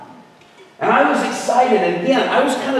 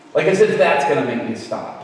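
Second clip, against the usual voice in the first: usual speaking voice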